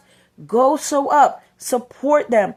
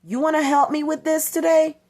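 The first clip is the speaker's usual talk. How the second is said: upbeat invite; 5 semitones higher than usual. Retold or imitated. Cheerful invitation to child.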